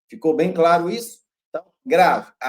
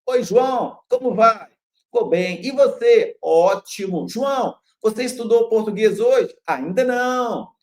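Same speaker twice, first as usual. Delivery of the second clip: two voices in a brighter, raised pitch; acted phone chat; 4 semitones higher, 4 dB louder than usual. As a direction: act out a friendly phone call between two people. Acted phone dialogue example. (diálogo encenado ao telefone, voz mais aguda)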